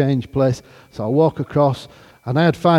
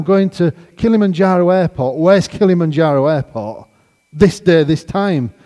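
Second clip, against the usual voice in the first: loud, raised, incredulous repetition; high-pitched mock disbelief; 5 semitones higher, 6 dB louder than usual. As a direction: throw the details back in disbelief. Repeats the email in disbelief.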